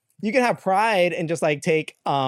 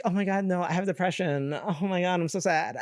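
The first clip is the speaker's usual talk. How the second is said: softer, whiny fake sadness; mock sad; 2 semitones higher, 4 dB quieter than usual. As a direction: pretend to be sad for attention. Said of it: "we tried to, like".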